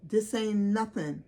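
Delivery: what a real friend would say, mock church fervor; preachy supportive friend. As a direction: rebuke it like a prayer warrior. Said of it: "a friend would have said".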